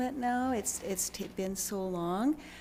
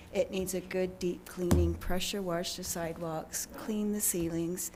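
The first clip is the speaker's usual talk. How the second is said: losing voice. Real, not acted. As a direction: voice giving out, hoarse and strained. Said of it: "Sorry, I'm losing my voice".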